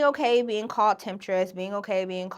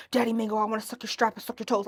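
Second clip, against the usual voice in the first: fast low caller; faster than usual. Retold or imitated. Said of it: "he would talk so fast and so low".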